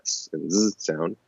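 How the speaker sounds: "z" given as a buzzed sound; isolated speech sounds. Shown as a demonstration. Explaining ear training to learners, "z" sounded out as a buzz. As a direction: contrast "s" with a voiced, buzzing "z". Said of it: "that one sound difference of that".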